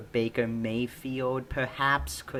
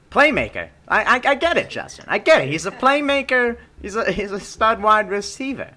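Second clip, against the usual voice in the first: excited; 9 semitones higher, 7 dB louder than usual. Real, not acted. Hyped defense of a receiver.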